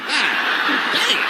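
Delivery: damn jumps way up high; stunned exclamation rising high; shocked god damn, pitch leaps up. Retold or imitated. Shocked reply.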